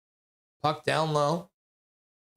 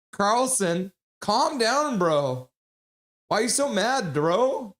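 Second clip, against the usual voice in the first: excited call-out; 6 semitones higher, slower than usual. Real, not acted. Calling out to an angry player.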